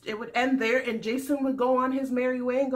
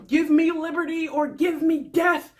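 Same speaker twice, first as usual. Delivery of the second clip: lightly declaimed, higher speech quote; mock oratory; 4 semitones higher, 4 dB louder than usual. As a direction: mimic a rousing orator. Quotes a famous speech theatrically.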